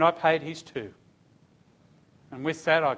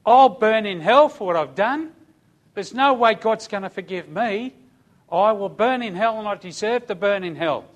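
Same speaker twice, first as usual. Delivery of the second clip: loud, despairing cry of a guilty man; mock scream of a condemned prisoner; retold scream; 4 semitones higher, 5 dB louder than usual. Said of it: "he screamed at me".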